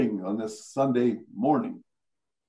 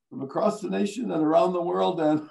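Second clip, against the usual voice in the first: higher intro recital collapsing into a laugh; breaking into laughter; 4 semitones higher than usual. Retold or imitated. Broadcaster retelling the failed retake of the intro, dissolving into laughter. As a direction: start the news intro, then crack up. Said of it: "was laughing again".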